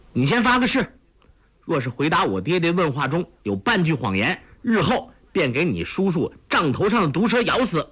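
put-on high, fast girlish complaint; complaining daughter. A narrator's reading. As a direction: tattle to daddy, quickly. Huang Rong voiced.

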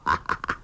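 put-on breathy old man's ha-ha; old beggar laughing heartily; hearty laugh. A narrator's reading. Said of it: "哈哈大笑".

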